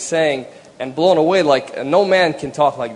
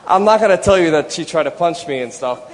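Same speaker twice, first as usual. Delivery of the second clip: laughing; 5 semitones higher, 4 dB louder than usual. Real, not acted. Teasing about wife's anger, laughing.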